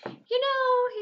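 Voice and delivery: high, loud pompous principal; booming mock-stern principal; principal's voice. A narrator's reading. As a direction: play the gloating principal. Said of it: "he said".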